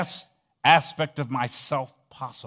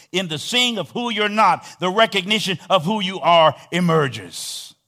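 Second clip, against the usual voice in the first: emphatic quote; 5 semitones higher, 8 dB louder than usual. Acted. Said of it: "Eckhart Tolle says in his book".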